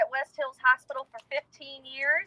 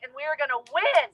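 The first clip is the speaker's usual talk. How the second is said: rally speech. Real, not acted. Rally call to fight.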